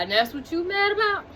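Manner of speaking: incredulous question. Retold or imitated. Tied-up man snapping at his girlfriend, fast and incredulous. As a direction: ask it like he can't believe her. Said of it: "He was just like".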